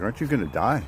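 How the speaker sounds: mock Australian questioning; attempted Australian accent. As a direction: play a worried Australian, rough attempt at the accent. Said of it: "too early for Australian accents".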